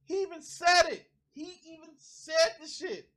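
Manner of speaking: loud, high outraged yell; outraged shout. Real, not acted. Streamer reacting to the clip, shouting in outrage.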